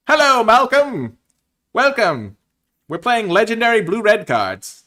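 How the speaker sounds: high, loud, slow drawn-out greeting; delighted welcome. Real, not acted. Greeting the pirate card Malcolm, overjoyed and loud.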